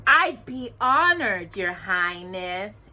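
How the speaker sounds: slow, mock-polite bow of a line; mockingly. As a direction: drag it out to mock her. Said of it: "Anastasia said mockingly".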